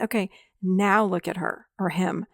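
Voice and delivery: slow, deliberate coaching with long pauses; measured guidance, leaving space after each instruction. Shown as a demonstration. Therapist guiding a client to the inner child, slowed down. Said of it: "I'll have them slow down".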